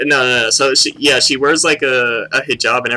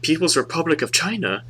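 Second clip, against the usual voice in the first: higher, softer mock Asian accent; imitated Asian accent; 4 semitones higher, 6 dB quieter than usual. Student explaining PRC, imitated Asian accent. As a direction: lightly put on an Asian accent. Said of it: "he has, like, an accent".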